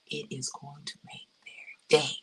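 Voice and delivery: low-key, deliberate promise with pauses; soft, weighted delivery, pausing before "day"; measured emphasis. Real, not acted. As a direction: space the words out, softly and sincerely. First take of emphatic promise.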